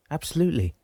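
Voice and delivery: high, eager agreement; excited, pitched well up. A narrator's reading. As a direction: agree with rising enthusiasm. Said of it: "excited now".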